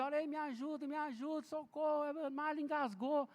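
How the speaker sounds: mock panicked call. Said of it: "Ele gritando".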